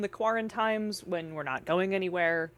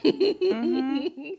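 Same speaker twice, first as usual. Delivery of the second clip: sad noise; 5 semitones higher, 3 dB louder than usual. Retold or imitated. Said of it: "And I'm like".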